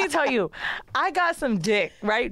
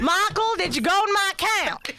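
distressed wife; 10 semitones higher than usual. Retold or imitated. Wife confronting Michael about her emptied account, high and upset. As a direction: pitch it up as a shocked, betrayed wife. Wife voiced accusing husband.

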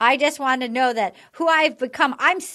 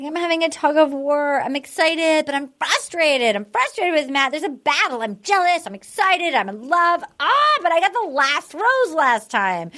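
higher, mock-frantic list of feelings; freaking out; 4 semitones higher than usual. Host retells contestant freaking out over mixed feelings, mock frantic. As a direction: swing through her jumbled feelings, voice lifting. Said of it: "Bree even starts freaking out".

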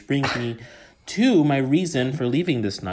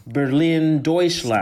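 put-on German city names with a Spanish accent, a touch louder; 4 semitones higher, 4 dB louder, slower than usual. Podcast guest boasting about his city, light Spanish accent on German. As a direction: roll Berlin and Deutschland out in a Spanish accent. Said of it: "a fucking Spanish accent on his German word".

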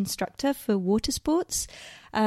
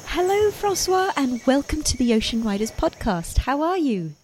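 excited greeting. Real, not acted. Host greets guest on air.

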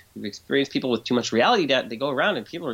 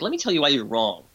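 mock exasperated lecturing. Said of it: "that basically sounds like".

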